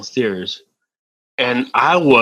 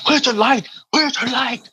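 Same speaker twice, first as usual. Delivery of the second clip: high-pitched imitation of an old man; confused old landlord; 12 semitones higher than usual. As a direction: call out like an old man who can't see. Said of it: "His eyes were bad".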